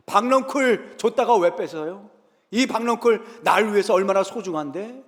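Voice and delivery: sulky prophet protesting his lost vine; indignant complaint. Retold or imitated. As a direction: whine back at God, wounded and upset. Jonah complaining to God.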